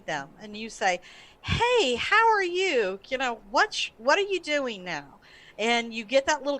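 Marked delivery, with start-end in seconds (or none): 1.4-5.2 bright, higher friendly hello; cheerful greeting. Retold or imitated. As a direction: greet an old friend warmly.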